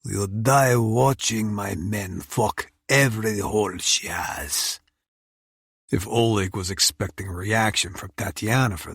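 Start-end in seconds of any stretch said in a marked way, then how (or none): 0.0-4.8 cold threat. Acted. Oleg threatens.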